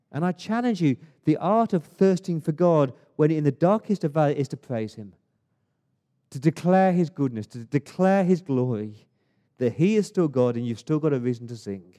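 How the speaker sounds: loud, insistent challenge to the congregation; rousing preacher's exhortation; full-force preaching. Real, not acted. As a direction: drive each phrase home with force.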